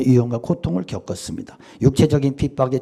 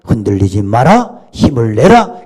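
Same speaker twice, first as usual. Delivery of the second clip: voice of God; 2 semitones lower, 4 dB louder than usual. Retold or imitated. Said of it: "이렇게 위로해 주셨다는 거예요".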